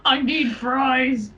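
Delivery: slow hammed-up Scorpion growl. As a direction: drag it out like a fighter. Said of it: "talk like that".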